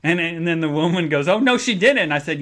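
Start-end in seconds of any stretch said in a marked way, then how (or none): 1.3-2.1 high, louder sassy gasp; mock shock. Receptionist reacting to the kitty story, high mock shock. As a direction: act scandalized.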